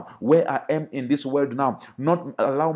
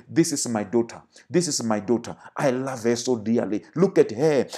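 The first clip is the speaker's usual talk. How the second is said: lower, tender fatherly voice of God; God's voice; 3 semitones lower than usual. Acted. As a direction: speak as a proud loving father over his daughter. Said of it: "God can look at us and say".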